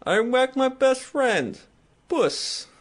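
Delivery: lightly voiced mob boss line; Tony quote. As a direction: quote the Sopranos boss with a hint of his voice. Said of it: "and he just says".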